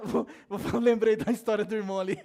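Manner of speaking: words through a laugh; can't stop chuckling while talking; real laughter breaking in. Real, not acted. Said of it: "eu tento ser sério, eu não consigo".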